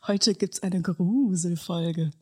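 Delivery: spooky whispered ghost voice. Pretend. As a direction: whisper it like a haunting spirit. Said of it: "Ist es deine Geisterstimme".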